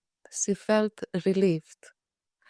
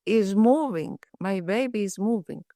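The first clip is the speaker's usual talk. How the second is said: excited. Retold or imitated. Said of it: "she said".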